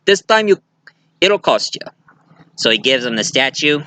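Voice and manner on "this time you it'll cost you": villain's threat. Retold or imitated. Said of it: "And he said".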